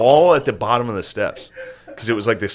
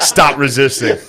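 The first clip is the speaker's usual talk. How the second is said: mock cop; 3 dB louder than usual. Mock cop bouncer bit, laughing.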